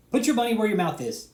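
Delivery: loud, high-pitched dare shouted at David; angry challenge. Real, not acted. Ranting at David over his channel, a loud angry dare. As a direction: call him out, full voice.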